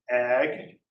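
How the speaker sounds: Ag said alone as first syllable. Shown as a demonstration. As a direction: isolate Ag, then pause. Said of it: "let's break this down".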